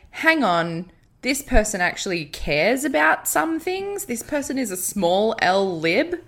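half-hearted Howard voice shutting the door; mock John Howard. Imagining Howard sacking a moderate minister, mildly mocking bossy voice. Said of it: "John Howard was like".

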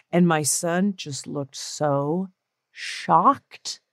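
normal talking voice

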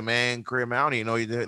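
mock Southern accent, words run together; thick Southern accent. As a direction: imitate an unintelligible Southern mumbler. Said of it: "a real thick Southern accent".

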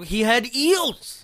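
drawn out slowly, deliberately; slow emphasis. Real, not acted. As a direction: stretch out each word slowly. Joke punchline drawn out.

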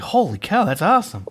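high, amazed exclamation; excited. Retold or imitated. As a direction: blurt it out in wonder. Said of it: "I was like".

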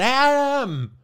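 high, loud drawn-out call of "Adam!"; eerie creepy calling; mock yell. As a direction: call out like a voice from a horror basement. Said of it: "brüllt jemand".

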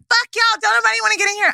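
high, loud mocking voice; high mock yell. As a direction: squeal it like a rowdy girl. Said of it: "She was like".

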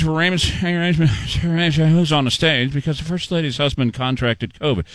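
slurred, rushed then dragging mock of the president; lightly slurred mock Biden reading; mumbled imitation. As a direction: mimic him stumbling through the line.

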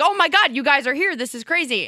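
mock-excited fan gush. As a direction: gush like a starstruck fan running up. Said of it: "came running up to us like".

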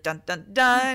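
ominous sung sting; dramatic dun dun dun. Pretend. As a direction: hum it like a suspense cue. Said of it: "it's supposed to be like".

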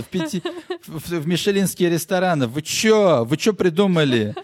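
high, scoffing, offended rich man; indignant rich ex-homeless guy. Retold or imitated. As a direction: scoff at the offer like a newly rich snob. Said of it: "Он такой".

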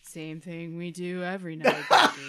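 slow whispered Brain impression, deep as possible; extremely deep bass voice. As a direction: do the Brain from Pinky and the Brain. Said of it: "do the deepest voice you can".

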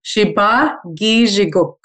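slow "Shibagi Jiguk", shee-bah gee-zhee-gook; slow pronunciation demo. Shown as a demonstration. Guest corrects host on "Shibagi Jiguk", slow pronunciation demo. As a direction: model "Shibagi Jiguk" slowly, falling at the end. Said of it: "the way you say it".

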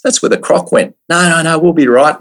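high-pitched protest. Retold or imitated. Arguing with Rick over the dive.

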